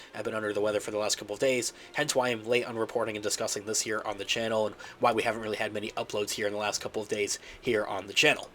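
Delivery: stuffy, nasal sick voice. Real, not acted. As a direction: talk through a blocked nose. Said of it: "I do apologize for the nasally voice".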